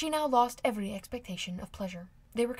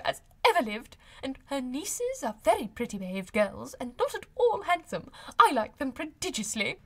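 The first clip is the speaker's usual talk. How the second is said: much higher and louder, a delighted chattering mother; gushing high spirits; 5 semitones higher, 6 dB louder than usual. A narrator's reading. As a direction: gush on triumphantly about the dinner. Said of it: "in very great spirits".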